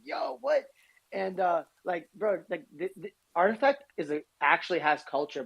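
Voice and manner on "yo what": high-pitched retold "yo" of surprise; surprised, pitched well up; surprised reaction. Telling how he reacted to a homie, high-pitched surprise.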